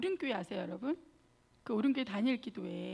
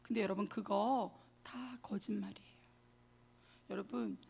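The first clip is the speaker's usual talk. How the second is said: whispered; 2 semitones lower than usual. Real, not acted. Confiding to congregation.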